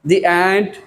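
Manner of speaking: The ant with The said "dee" before the vowel; teacher demonstrating The as "dee" in The ant. Shown as a demonstration. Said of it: "कहाँ द को दी बोलते हैं".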